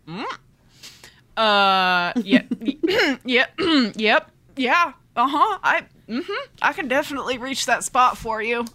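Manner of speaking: hammed-up flustered man; flustered hero. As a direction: trip over your words trying to sound cool. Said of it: "he stops dead in the hallway".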